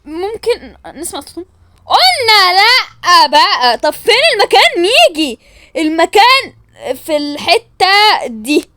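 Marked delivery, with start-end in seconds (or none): 1.8-8.7 loud, slow stubborn refusal; mock villain laying down the law; disguised kidnapper voice. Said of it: "غيري صوتك". (صوت خاطف مستعار، عالي وبطيء)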